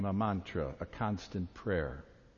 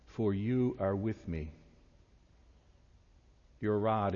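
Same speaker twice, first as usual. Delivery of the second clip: slow meditative scripture reading with long pauses; read slowly. Shown as a demonstration. Pastor guiding the congregation through the psalm, slow and meditative. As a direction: let the words wash through the listeners. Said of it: "I will read it slowly".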